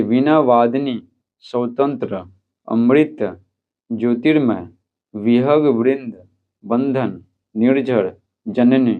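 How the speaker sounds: each word spoken clearly for students to repeat, "विहग वृंद" drawn out slowly; careful pronunciation drill. Shown as a demonstration. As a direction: pronounce every word cleanly as a model for the class. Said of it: "तो उच्चारण करते हैं, तो आप भी कीजिएगा". (शुद्ध उच्चारण का अभ्यास, हर शब्द साफ़-साफ़)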